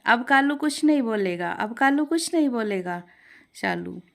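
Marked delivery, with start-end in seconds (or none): 0.1-3.0 higher, louder parrot imitation of the complaint; parrot mimicking. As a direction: parrot aping the mother-in-law. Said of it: "तभी तोता भी कहता है". (सास की नकल करता तोता)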